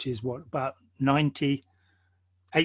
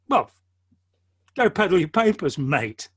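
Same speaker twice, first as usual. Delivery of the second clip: dismissive guard; 2 semitones higher than usual. Retold or imitated. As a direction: send the visitor packing with contempt. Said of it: "It's like".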